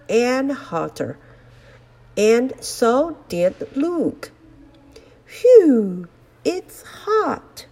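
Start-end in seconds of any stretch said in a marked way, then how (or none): 5.3-7.7 loud hot puff, then high; blowing out air in the heat; overheated. Acted. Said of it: "he said".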